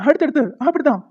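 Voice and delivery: loud, high egging on; cheering on. Acted. Husband cheering his wife's mock scolding loudly. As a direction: urge her to keep going.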